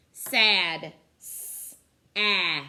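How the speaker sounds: Sad called out loud; loud stressed word. Shown as a demonstration. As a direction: say Sad big and loud for the kids. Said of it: "Tell me the sounds you hear in sad".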